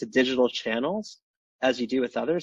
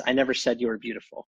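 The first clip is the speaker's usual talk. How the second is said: NEVER said a touch stronger than the rest; stress on never. Shown as a demonstration. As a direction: lean on the word never, then let it go. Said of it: "just put the emphasis on a different word each time".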